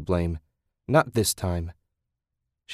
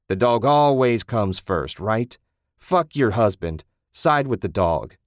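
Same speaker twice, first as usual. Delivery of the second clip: bitter; 4 dB louder than usual. Acted. Ted bitter, loud.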